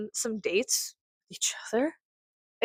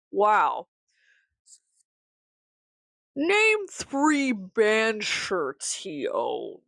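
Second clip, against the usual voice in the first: sarcastic; 3 semitones higher, slower than usual. Retold or imitated. Sarcastic quiz of the girl.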